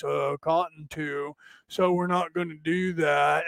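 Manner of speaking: put-on slow, droning old politician voice; plodding senator impression. Mocking the other senator at the mic, slow drone. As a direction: drag every word out like a tired senator. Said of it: "he's like".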